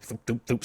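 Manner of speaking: three quick "thoop" sounds; light mouth-made swoosh, repeated; imitated whoosh noise. Host miming sending files downriver, playful sound effect.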